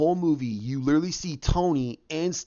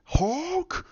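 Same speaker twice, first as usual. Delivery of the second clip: strained monster battle cry, drawn out; Hulk; 14 semitones higher than usual. Retold or imitated. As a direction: force it out as a mock beast roar. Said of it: "you hear him go".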